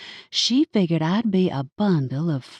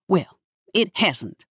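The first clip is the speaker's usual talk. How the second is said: snapped; 3 semitones higher than usual. Acted. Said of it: "she snapped".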